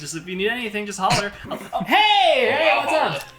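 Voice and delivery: high, bright-pitched barmaid voice; a barmaid greeting new customers, high and cheerful; chirpy bartender. Acted. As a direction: play the cheery barmaid calling out.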